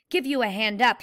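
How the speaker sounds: ordinary delivery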